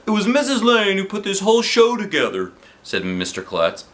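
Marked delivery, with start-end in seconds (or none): 0.1-2.5 high, bright showman's welcome; announcer voice. Acted. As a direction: announce it to the crowd. Principal announcing on stage.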